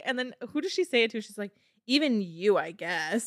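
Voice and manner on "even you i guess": mock-reluctant, dropping low at the end; grudging thanks. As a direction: tack it on as a grudging afterthought. Acting grudging thanks to Branch.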